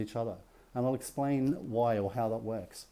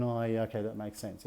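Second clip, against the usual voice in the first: acted self-reassurance, trailing off softer and lower; soothing self-talk; 3 semitones lower, 4 dB quieter than usual. Intellect calming the nervous system, soothing and subdued. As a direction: talk yourself down, voice dropping away. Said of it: "So I'm soothing my nervous system going".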